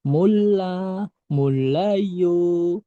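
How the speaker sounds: "mula, mulayu" with a long doubled l; teacher's drawn-out "mula, mulayu", holding the l; double L demo. Shown as a demonstration. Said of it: "dua-duanya dibaca L".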